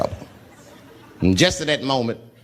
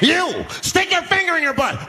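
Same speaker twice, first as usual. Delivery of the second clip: high singsong order; a hammed-up lunatic giving orders; sing-song demand; 12 semitones higher than usual. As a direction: croon the command menacingly. Homeless man demands.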